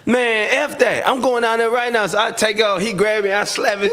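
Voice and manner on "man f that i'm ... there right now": higher, raised, defiant; retold defiance. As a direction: snap back like you mean it. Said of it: "I was like".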